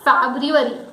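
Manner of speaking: FEBRUARY as FAB-ryoo-uh-ree; correct pronunciation. Shown as a demonstration. Teacher repeating the word, correct pronunciation. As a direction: model FEBRUARY with "ryoo" sounded. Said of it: "So the word is February".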